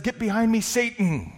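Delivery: stern rebuke. Acted. Jesus turning on Peter, loud stern rebuke. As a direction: cut Peter off hard. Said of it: "Jesus turns to Peter and says".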